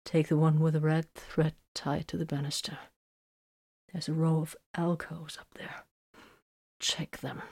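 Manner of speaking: soft, weakened voice; faint, subdued murmur; hardly able to speak. A narrator's reading. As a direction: give directions with little strength. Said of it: "sounded like he could hardly speak".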